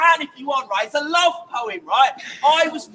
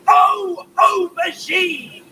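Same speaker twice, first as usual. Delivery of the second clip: passionate call-back; 4 semitones higher, slower than usual. Shown as a demonstration. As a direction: belt it out with gusto, slowly. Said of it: "say it with passion and gusto and oomph".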